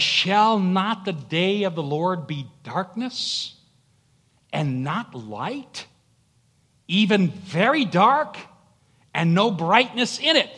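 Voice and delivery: building, emphatic Bible recitation; dramatic scripture reading. Acted. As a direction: declaim the verse with weighty pauses. Reads scripture aloud from pulpit.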